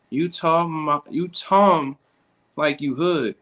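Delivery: high, slow, put-on proper voice; mock prim voice. Streamer reading a chat comment back in a mocking prim voice. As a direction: read the comment back in a snooty voice. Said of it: "you want me to talk like I'm white".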